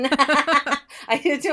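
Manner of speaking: loud, high showman call; barking it out like a fairground host; carnival barker. Shown as a demonstration. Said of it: "We all do that Carnival Barker voice".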